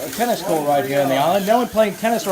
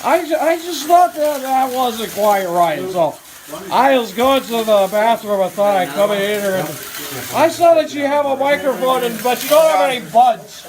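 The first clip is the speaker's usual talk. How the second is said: Harry Caray yelling; 3 semitones higher than usual. Acted. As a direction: bellow after Steve as the ballpark announcer. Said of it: "you're Harry Caray".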